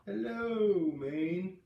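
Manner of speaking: hello sung out high and loud; joyful hello. A narrator's reading. Kids riding bikes greeting Maine, high joyful call. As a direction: greet the whole state with joy.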